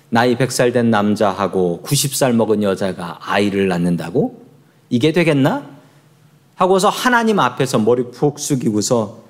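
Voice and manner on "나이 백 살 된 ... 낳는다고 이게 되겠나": scoffing in disbelief, pitched low; mocking Abraham. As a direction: scoff at the promise. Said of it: "그대로 비웃었습니다". (비웃는 말투)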